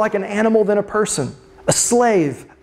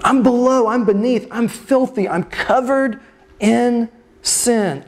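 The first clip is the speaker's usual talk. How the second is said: distressed self-abasing plea, pitched up at first; mind-blown protest; 3 semitones higher than usual. Acted. Peter protesting he is too dirty for Jesus, mind blown. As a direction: plead in mild disbelief, halting between phrases. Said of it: "his mind is blown".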